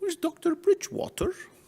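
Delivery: really bad put-on English accent, very high. Conference speaker retells his young kids' question, in a really bad fake English accent. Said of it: "With a really bad fake English accent".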